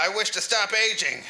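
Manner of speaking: lightly hammed-up declaration; mild retold yell. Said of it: "I yelled".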